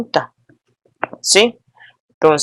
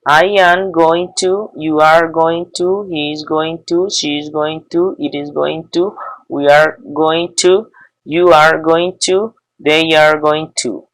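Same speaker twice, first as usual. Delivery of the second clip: slow, careful recitation of each form; patient teacher reciting; slow classroom drill; slower than usual. Shown as a demonstration. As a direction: spell it out for the students, one form at a time. Teacher drills English conjugation slowly.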